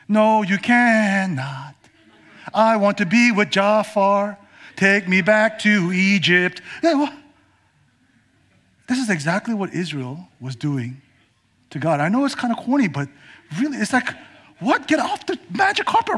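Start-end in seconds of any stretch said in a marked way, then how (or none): 0.1-6.6 mock refusing Jasmine. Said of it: "imagine if she had begun to say". 13.6-16.2 higher, through a laugh. Real, not acted. Preacher joking about Jasmine, laughing.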